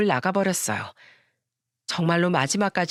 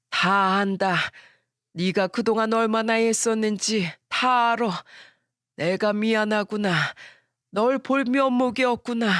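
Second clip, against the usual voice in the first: sorry father-in-law. Acted. Father-in-law apologizes to her.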